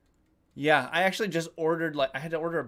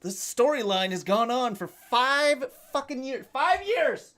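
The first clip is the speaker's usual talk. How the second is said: exasperated; 7 semitones higher than usual. Real, not acted. Exasperated rant at chat.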